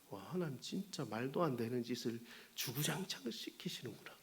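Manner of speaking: soft unvoiced whisper of complaint; a sneaky, whispered gripe at God; whispered grumble. Private grumbling thought about God. (속삭이며 투덜거리는 속마음)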